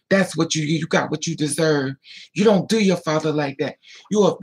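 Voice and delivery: mock indignant scolding, hammering each accusation. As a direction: imitate a stepmother laying into a child. Retells stepmother scolding her.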